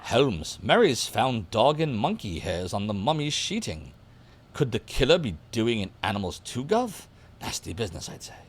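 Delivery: put-on half-hearted British gov'nor accent; unconvincing stab at a British accent; botched British accent. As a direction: attempt a British accent and miss it. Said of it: "I'm not doing the accent right".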